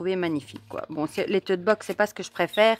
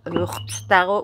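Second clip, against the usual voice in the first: whispered English retry; 3 dB louder, slower than usual. Real, not acted. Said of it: "avec, euh, mon accent".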